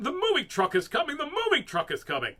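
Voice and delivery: loud, high frantic yell; dad yelling. A narrator's reading. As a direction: announce it in a panic. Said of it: "Her dad was yelling".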